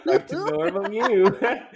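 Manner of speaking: loud laughing. Retold or imitated. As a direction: laugh as you say it. Mocking friend's voice.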